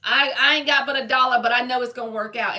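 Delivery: hint of bold self-assurance; confident mock self-talk. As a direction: say it like you believe the universe has your back. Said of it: "or you can say".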